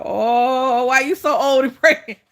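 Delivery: imitating friends' loud, laughing tease; mocking laughter. Friends laughing at her late pregnancy, mocking laughter. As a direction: hoot it out, breaking into laughter.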